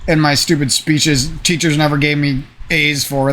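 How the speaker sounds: normal talking voice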